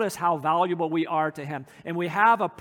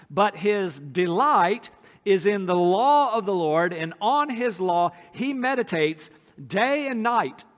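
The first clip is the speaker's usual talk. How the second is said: slow, louder verse read aloud; scripture reading; 4 dB louder than usual. Acted. Reads a verse from Psalm one.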